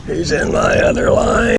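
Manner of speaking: high, loud hurried call; excited shout. Real, not acted. Noticing a fish on his other line, a high loud call. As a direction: call it out in surprise. Second fish strikes suddenly.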